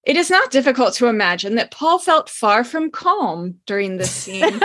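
dry, deadpan understatement, laugh creeping in; wry understatement. Acted. Host comments wryly on Paul's state, deadpan understatement. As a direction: keep it dry, British understatement. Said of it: "British understatement".

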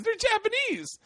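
very high mock outrage; hammed-up correction, laughter close behind; retold exasperation. Friend setting comic straight, mock exasperation.

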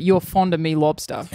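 broad, thick Australian accent; super Australian accent. Shown as a demonstration. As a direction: lean into a broad Aussie accent. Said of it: "super Australian".

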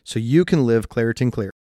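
upbeat sponsor-read delivery. Acted. Podcast host selling allergy relief, ad read. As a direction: pitch the product to listeners.

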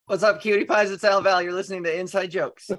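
loud, bright radio shout-out; excited. Acted. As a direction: hype up the listeners. Podcast shout-out intro.

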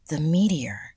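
half-whispered realization; hushed realization. A narrator's reading. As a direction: breathe it out as it dawns. Sudden shared realization, hushed.

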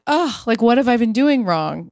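stunned, it suddenly clicks; realization. Retold or imitated.

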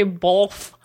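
"both" said as bolth; added L sound. Shown as a demonstration. Can't stand when people say it, added L sound. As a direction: put an L before the th in "both". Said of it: "both with an L".

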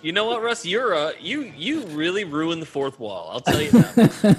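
high, loud laughing scold. Real, not acted. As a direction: tease him while laughing. Mock scolding amid laughter.

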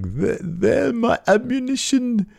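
imitating Eddie Dennis's promo, high and slow; mock Eddie Dennis. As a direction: ham up the menace slowly. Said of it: "Eddie Dennis says something like".

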